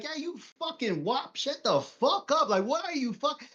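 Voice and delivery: put-on high, rough street-kid ribbing; Joey's taunt. Imitating a childhood friend insulting him on the block, high and mocking. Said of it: "Joey would say something like".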